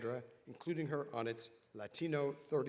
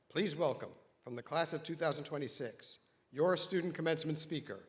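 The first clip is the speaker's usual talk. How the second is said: louder, rising welcome call; excited announcer; 3 semitones higher, 4 dB louder than usual. Real, not acted. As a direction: build the welcome up to the name. Announcer welcoming speaker to stage.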